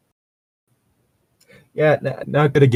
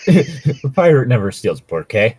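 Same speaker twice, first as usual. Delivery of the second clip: laughing quote; 2 semitones higher, 6 dB louder than usual. Acted. Mocking show line laughing.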